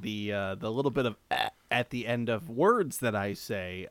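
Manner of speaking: creaky low vocal fry. Real, not acted. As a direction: let the voice creak at the ends. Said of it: "is my vocal fry you're hearing".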